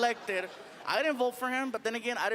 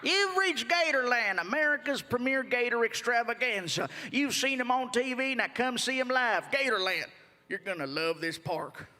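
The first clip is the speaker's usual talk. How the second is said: a hint of a folksy park recording; lightly voiced cheesy recorded greeting; phone menu voice. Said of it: "they have a recording".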